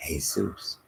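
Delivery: "Jesus" said the Spanish way, hay-SOOS; breathy H opening "Jesus", ending in -soos; Spanish pronunciation. Shown as a demonstration.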